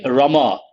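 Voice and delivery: put-on Rama with the girl's name sound. Shown as a demonstration. Teacher shows the girl's Rama. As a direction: say Rama as for a girl. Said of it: "For a girl".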